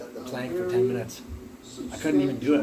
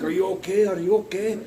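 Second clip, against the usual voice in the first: higher, louder worried coach checking; concerned call; 7 semitones higher, 6 dB louder than usual. Retold or imitated. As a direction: call out are you okay to a downed man. Coach checks on fallen student.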